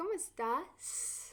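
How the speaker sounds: final syllable "-tás" in "estás" drawn out. Language lesson demonstrating how to ask a question: stretched last syllable. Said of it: "you're kind of elongating and taking a little bit longer".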